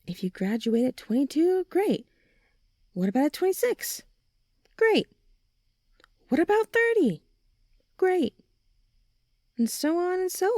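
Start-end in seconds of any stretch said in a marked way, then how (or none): 1.7-10.5 excited cheering. Acted. A friend hyping up every graduation age, excited. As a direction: cheer each age on with rising glee.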